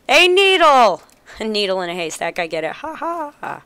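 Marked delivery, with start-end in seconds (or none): 0.1-1.0 high, laughing surprise; laughing delighted discovery; surprised. Real, not acted. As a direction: burst out at the needle.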